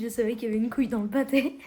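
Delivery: laughing repeat. Real, not acted. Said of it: "répète l'expression".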